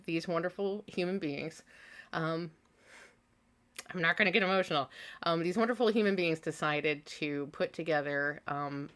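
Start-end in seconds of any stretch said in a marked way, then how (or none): 3.9-4.9 holding back tears. Real, not acted.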